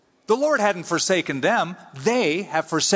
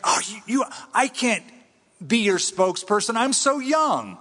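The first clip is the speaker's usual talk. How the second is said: put-on young protest; 5 semitones higher than usual.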